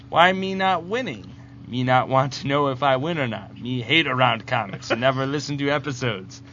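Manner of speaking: lightly voiced backwards comic-book villain; lightly put-on simpleton reading a letter out; Bizarro voice. Host reading contest entry as Bizarro, lightly voiced. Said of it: "do this in the voice of Bizarro".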